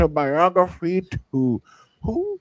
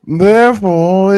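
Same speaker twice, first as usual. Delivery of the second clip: hammed-up old English accent, louder, grand; mock Elizabethan English accent; 5 dB louder than usual. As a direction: read it like a pompous Elizabethan noble. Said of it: "that English Elizabethan accent".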